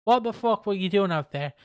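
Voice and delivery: hammed-up wrestler blowing his top; mock furious rant. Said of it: "Kevin Thorne's like".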